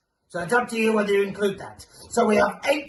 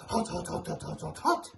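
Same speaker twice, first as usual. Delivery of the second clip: much softer, breathy whisper of hot; 9 dB quieter, faster than usual. Acted. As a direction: hiss the hots like they burn. Repeating hot for hottest planet.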